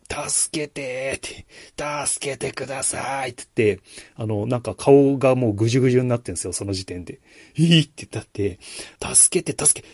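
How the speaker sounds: high, pleading, begging to be let in; desperate pleading. Retold or imitated. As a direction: plead for your life at a locked door. Desperate woman begging at door.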